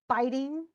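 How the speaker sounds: "Biting" as BIT-ing, stressed then unstressed; "Biting" set apart, strong first beat, weak second. Shown as a demonstration. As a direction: put the weight on the first syllable of "Biting". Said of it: "is definitely stressed, unstressed".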